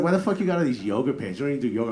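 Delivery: loud mock-incredulous teasing; making fun. Husband teasing wife about yoga pants, making fun. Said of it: "I'm, like, making fun of her".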